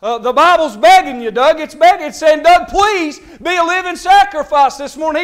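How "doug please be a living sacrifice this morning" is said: urgent preached plea; mildly raised, insistent appeal; crying out. Acted. Preacher voices the Bible pleading with Doug, crying out. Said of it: "He's, he's crying out".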